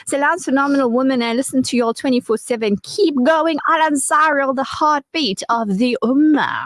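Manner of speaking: cheering listener message read aloud; energetic read. Acted. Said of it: "I like how you say it the way they must be saying it".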